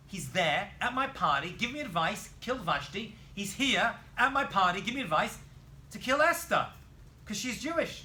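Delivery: loud, mounting indignation, acted out; retold royal outrage; furious king. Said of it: "So he is furious".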